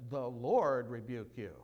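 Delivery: the archangel rebuking the devil; commanding rebuke. Retold or imitated. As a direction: rebuke with authority. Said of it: "capable of shouting in his dispute".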